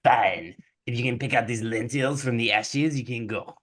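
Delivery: put-on French accent; grudging concession in a French accent; French stepmother. Stepmother setting Cinderella a task, French accent. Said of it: "so she's French".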